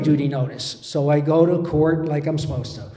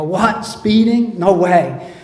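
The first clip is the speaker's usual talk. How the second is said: higher-pitched feigned disbelief; mock surprise; 3 semitones higher, slower than usual. Driver told by a cop he was speeding, acting surprised. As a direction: play innocent and taken aback.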